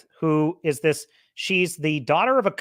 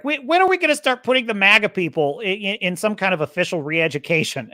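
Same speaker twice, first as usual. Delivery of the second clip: mocking Hillary Clinton; 4 semitones higher than usual. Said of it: "Hillary Clinton was like".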